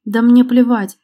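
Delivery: loud angry outburst, stress on мне; exclaimed. A narrator's reading. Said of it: "воскликнула Лера".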